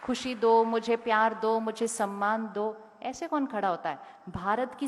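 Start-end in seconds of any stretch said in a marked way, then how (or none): 0.0-2.9 loud, insistent mock demand; hammed-up loud demanding plea. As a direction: imitate someone loudly demanding to be given things. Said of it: "ऐसे खड़े होते हैं सबके सामने".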